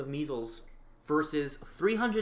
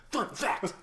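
segment announcer; 7 semitones higher than usual. Shown as a demonstration. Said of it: "that's how I'm gonna do it".

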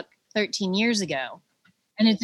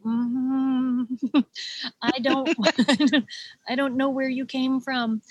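mock-baffled mother, higher, laughing through it; amused disbelief; 4 semitones higher, slower than usual. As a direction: laugh in disbelief at your own child. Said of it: "I looked at my son and I was like".

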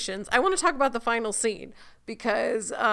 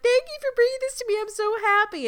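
mock Rumpel; 12 semitones higher, faster than usual. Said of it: "he's like".

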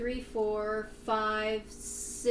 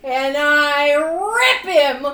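fierce; 4 semitones higher, 14 dB louder, slower than usual. Acted. Player describing savage attack.

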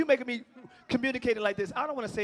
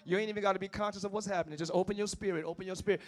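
intoning in the spirit; preaching prayer; 3 semitones lower, faster than usual. Real, not acted. Preacher praying over the congregation. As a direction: pray it over them. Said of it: "Excuse me for a minute, y'all".

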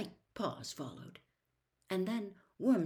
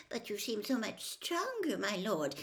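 slightly raised, placating voice; timid servant; 3 semitones higher, 3 dB louder than usual. Acted. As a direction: placate your angry master, a touch squeaky. Timid servant reassures his master.

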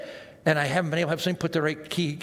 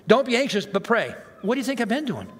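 mocking the advice; 4 semitones higher than usual. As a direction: mimic the pious advice-giver.

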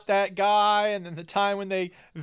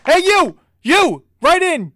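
loud, high mock yell; 9 semitones higher, 10 dB louder, much slower than usual. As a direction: bark it at the listeners. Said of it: "I should yell at people more".

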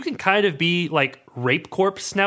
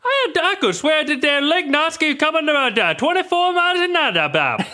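put-on Vermont accent; 8 semitones higher than usual. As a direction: brag like an old Vermont local. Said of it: "how people talk in Vermont".

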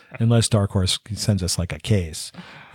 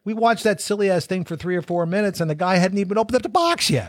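toy robot voice; 8 semitones higher than usual. Acted. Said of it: "I like this voice".

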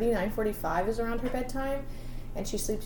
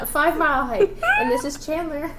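mock winded intro through laughs; giggling imitation of being breathless; laughing; 8 semitones higher, 9 dB louder than usual. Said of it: "You're like".

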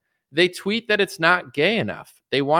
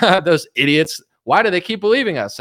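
mocking scheming politicians; 4 dB louder than usual. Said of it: "And they're like".

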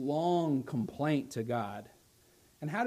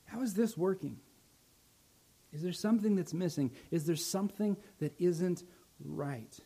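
God's gentle question; 4 dB quieter than usual. Acted. God asks each listener, soft and searching. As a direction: quietly probe the heart. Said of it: "But first he asks you".

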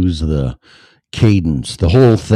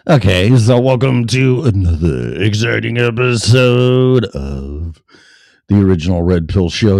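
show announcer; 5 semitones higher, 4 dB louder than usual. Real, not acted.

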